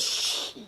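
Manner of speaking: soft, voiceless "shh" through the pain; imitated pained hiss. Johnny Cage after his back cracks, mock pained hiss. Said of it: "You hear his back crack".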